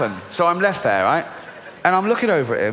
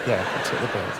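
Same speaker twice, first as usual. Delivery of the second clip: low weary voice; 8 semitones lower, 4 dB quieter than usual. Acted. Rational voice weary.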